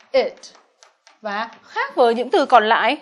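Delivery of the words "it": đuôi ed trong "supported" đọc thành "it"; "it" tách riêng thành một âm tiết. Shown as a demonstration. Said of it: "chúng ta sẽ đọc là". (đọc rõ đuôi "it")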